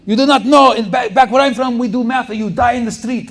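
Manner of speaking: loud, high mock yell of a furious professor; angry professor. Professor yelling at dumb American students, loud mock rage. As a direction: bark it like an intense teacher scolding. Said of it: "He would always say that".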